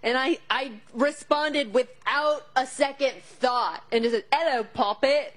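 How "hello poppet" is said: put-on terrible British accent, slowed and drawn out; a hammed-up British pirate greeting. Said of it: "like freaking Pirates of the Caribbean".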